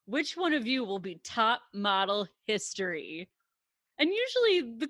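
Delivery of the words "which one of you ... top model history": put-on sassy voice. Retelling how Tyra sends contestants to private panel: imitating Tyra's sassy delivery. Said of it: "but this is very sassy".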